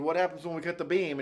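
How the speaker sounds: ordinary delivery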